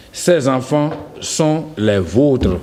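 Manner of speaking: exemple lent, « vôtres » avec o fermé; détacher la phrase, fermer le o de « vôtres ». Shown as a demonstration. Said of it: "On peut aussi dire". (o fermé dans « vôtres », débit lent)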